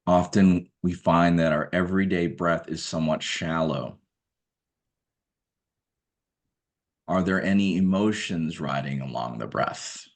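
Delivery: measured meditation guidance, spaced out by long pauses; guided meditation. Acted. Guide asking listeners to observe their everyday breath, guided meditation. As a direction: calmly direct attention to the breath, leaving room between phrases.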